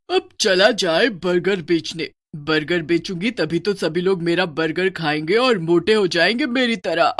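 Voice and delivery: lightly voiced scheming witch; mildly gloating witch. Witch plans to fatten her customers, gloating lightly. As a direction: relish the plan, building toward a laugh.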